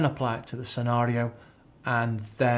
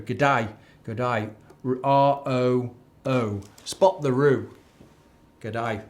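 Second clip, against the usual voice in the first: mock Australian accent; 3 dB louder, much slower than usual. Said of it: "Is that an Australian accent?".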